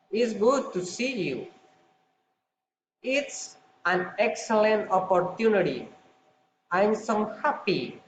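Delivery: exclamations falling on "you", "opportunity", "happy"; falling intonation. Shown as a demonstration. Teacher demonstrates exclamatory sentences, falling intonation on "you", "opportunity", "happy". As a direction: let "you", "opportunity", "happy" drop to a close. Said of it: "falling intonation".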